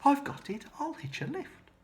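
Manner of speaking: high, excited little snail voice; tiny snail's sudden eager cry; cried out. Acted. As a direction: burst out with a bright idea. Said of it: "then cried".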